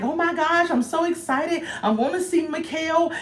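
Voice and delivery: high-pitched imitation of giddy excitement; mock excited. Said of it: "She all excited".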